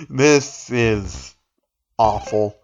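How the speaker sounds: amused groan at bad writing; laughing. Real, not acted. Laughing at the awful story.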